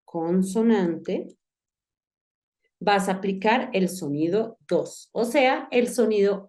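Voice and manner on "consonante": consonante drawn out syllable by syllable, con-so-nan-te; teacher stretching consonante at half speed; slow, spelled-out repeat. Shown as a demonstration. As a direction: repeat consonante slowly for the student. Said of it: "si la sílaba termina".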